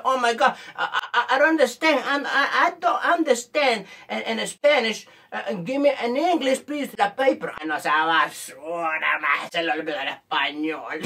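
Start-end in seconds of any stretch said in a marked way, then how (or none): 0.0-7.5 stammering, put-on broken English; pretend English speaker. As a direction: fumble along in affected English, slightly higher. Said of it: "les olvidó escribir en español". (inglés fingido y titubeante)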